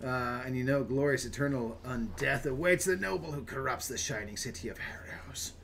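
lightly theatrical read, hushed at the very end; storyteller's delivery fading to a whisper; dramatic fantasy narration. Acted. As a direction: read it like ominous game lore. Reads fantasy blurb aloud.

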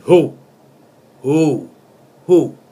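shouted who, rising in force; hammed-up yell of the song's hook; mock shout. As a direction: bellow the hook like a party cry.

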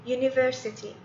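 "university." with a clear "yoo" at the start; model pronunciation. Shown as a demonstration. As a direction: say "university." carefully, as a teacher would. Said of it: "اليو تنطق على إنها يو".

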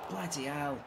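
"Bloody hell" let out softly in dismay; soft groaned "Bloody hell"; muttered curse. Real, not acted. Groaning at a missed chance.

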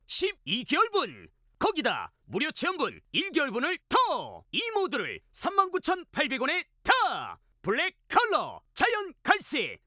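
punchy home shopping pitch; hard sell ad. Acted. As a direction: sell it hard, deal after deal.

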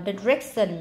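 "direction" with weight on "rec"; second-syllable stress. Shown as a demonstration. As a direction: slowly lean on "rec" in "direction". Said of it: "nhấn âm hai".

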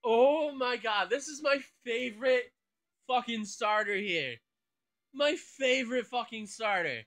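loud, emphatic delight; thrilled excitement. Real, not acted. Player claiming favorite starter for the team, thrilled. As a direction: gush loudly, punching the key words.

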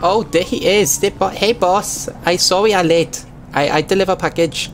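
greeting the boss in a hammed-up Chinese-style accent; apologetic driver with crude Chinese accent; mock broken-English accent. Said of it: "the worst and most offensive accent".

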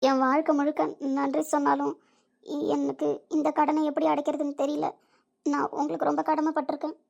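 moved, on the edge of crying; tearful. Acted. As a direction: thank them humbly through tears. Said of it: "அழாத இசை".

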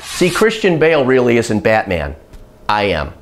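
low, gravelly Batman growl claiming to be the hero; a hint of Batman, low and gruff; mock Batman voice. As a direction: drop into a deep Batman rasp. Joking he is Batman.

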